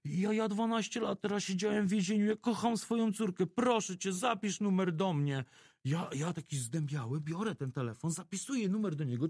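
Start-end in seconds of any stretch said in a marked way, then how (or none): 0.0-5.4 cowering plea. Retold or imitated. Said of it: "taki skulony mówi".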